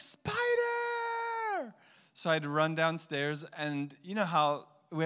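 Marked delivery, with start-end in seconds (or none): 0.0-1.7 put-on high screaming kid's cry; scared child yelling. Son shouting from the basement about a spider, high scared cry. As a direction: wail it like a frightened kid. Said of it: "He's like".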